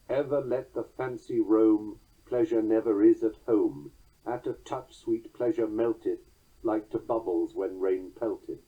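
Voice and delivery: Ever and pleasure stressed, melteth and pelteth trailing; measured verse recital; trochaic poem reading. Shown as a demonstration. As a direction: lilt the four-beat lines. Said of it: "Here is the opening to Keats's poem".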